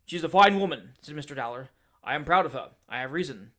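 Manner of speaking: a hot-tempered man working himself up to a shout; fierce Dowler tirade. Acted. Dowler boasting of wife.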